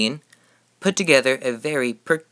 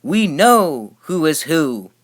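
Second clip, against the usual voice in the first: a slow, loud, high shout; slow triumphant shout; proud shout; 5 semitones higher, 5 dB louder, slower than usual. A narrator's reading. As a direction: shout it proudly with snoots in the air. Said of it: "they let out a shout".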